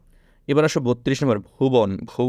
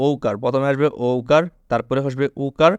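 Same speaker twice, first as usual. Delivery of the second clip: slow teaching emphasis. Shown as a demonstration. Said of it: "টেকনিকটা মনে রাখবা".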